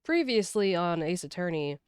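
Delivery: loud, dramatic trailer announcer; TV recap voice. Pretend. Streamer announcing the story so far, booming announcer. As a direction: boom it like a TV recap intro. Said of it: "I just wanna give you a".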